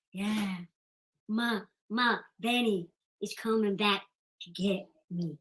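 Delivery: mocking lovestruck woman. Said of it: "she's getting all giddy".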